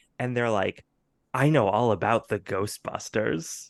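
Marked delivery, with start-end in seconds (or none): 1.3-3.7 really deep, dark, menacing, scary voice. Retelling how a tall game-show-style host leaned over, imitating a deep scary voice. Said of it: "their voice gets like really deep and scary".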